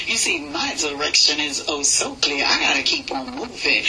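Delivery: rhythmic, steady poem recital; spoken word poem. Acted. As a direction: ride the rhythm of the verse.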